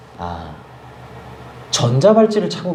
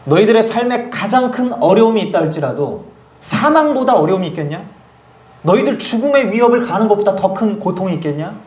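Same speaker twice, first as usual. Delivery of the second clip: Paul's proclamation; 5 semitones higher than usual. Retold or imitated. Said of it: "사도 바울은 외쳤습니다".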